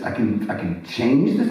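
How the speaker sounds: stammered question with CHANGE leaned on; retold disbelief, voiced out at talking level; dawning amazement. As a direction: restart it, then ask with growing wonder. Same question repeated as it sinks in.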